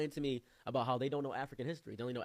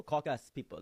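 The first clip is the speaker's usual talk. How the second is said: put-on firm African-accented confirmation; imitated African friend; 2 semitones higher, 5 dB louder than usual. African friend confirming his claim, imitated accent. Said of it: "He says".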